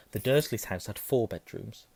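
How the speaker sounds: plain reading voice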